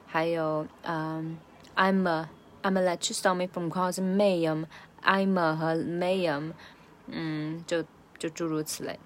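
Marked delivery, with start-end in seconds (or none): 1.8-6.5 slow "I'm a" and "Mayam" with "uh" endings; schwa reductions. Shown as a demonstration. Teacher's examples "I'm a" and "Mayam", slow with schwa. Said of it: "大量的弱化成a".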